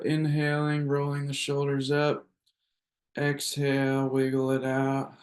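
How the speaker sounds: measured breath-cue voice with long pauses; guided breathing. Acted. Leads group breathing.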